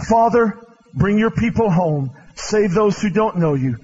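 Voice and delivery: fervent pulpit prayer. Acted. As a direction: call on God for the people. Closing prayer.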